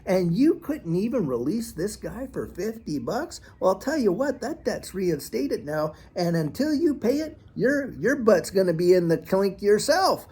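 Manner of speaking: hammed-up royal rebuke, half-disbelieving; mock outraged king. The king scolds the unmerciful servant, in mock outrage. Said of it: "he calls the guy back and says".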